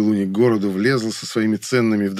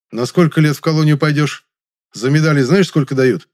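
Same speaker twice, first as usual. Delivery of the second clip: threatening; 6 semitones higher, 6 dB louder than usual. Acted. Threatening interrogation.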